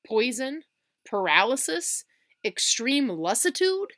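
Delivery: panicky worry. Acted. Billy panics over symptoms.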